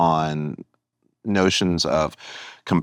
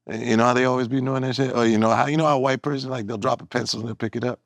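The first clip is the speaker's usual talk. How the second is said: quick, higher mock stand-up patter; stand-up comedy bit; 3 semitones higher, faster than usual. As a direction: run through a parody of an observational comic's routine. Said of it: "sometimes I'll do comedy".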